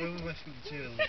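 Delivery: fast hushed whisper. Real, not acted. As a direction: whisper it quickly. Whispered request in car.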